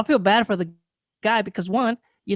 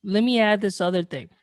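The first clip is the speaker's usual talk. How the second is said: slurring words. Real, not acted. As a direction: speak like you've had a few too many. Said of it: "Slurring your words, bro".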